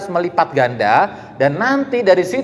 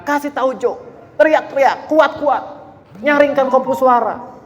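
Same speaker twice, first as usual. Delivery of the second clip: high Manado dialect call; playful Manado accent cry; 8 semitones higher than usual. Retold or imitated. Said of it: "ini pakai logat Manado nih".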